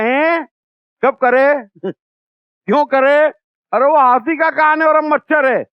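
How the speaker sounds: high, amused huh, mocking the devotee; god can't hear the tiny prayers; puzzled god. God's mock reply, laughing. (हँसते हुए भगवान की आवाज़)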